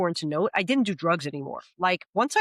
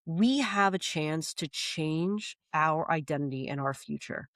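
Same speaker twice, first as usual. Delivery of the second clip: sincere plea; 3 dB quieter than usual. Retold or imitated. Heart-to-heart with cousin in car.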